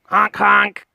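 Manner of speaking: loud honk honk imitation; goose honks. Shown as a demonstration. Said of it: "Can you go honk, honk?".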